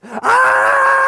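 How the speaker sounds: very high loud scream; children screaming. Retold or imitated. Kids kicking at the steps, high loud scream. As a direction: shriek in panic. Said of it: "And screaming".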